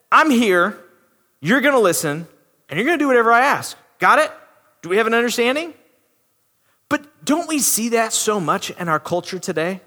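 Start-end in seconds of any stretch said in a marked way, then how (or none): 0.1-5.7 mock-bossy, fast at the end; entitled attitude. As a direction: lay down the terms smugly. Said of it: "That attitude of entitlement".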